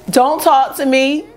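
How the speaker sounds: high, slow mock announcer on a mic; assembly announcer. Teacher at assembly hushing kids, mock announcer voice. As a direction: hush the whole school from the stage. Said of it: "somebody would always be up on stage with a mic talking about".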